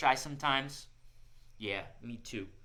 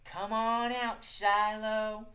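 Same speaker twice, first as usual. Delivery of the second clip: sweet call; 5 semitones higher, much slower than usual. Shown as a demonstration. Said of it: "In your sweetest voice".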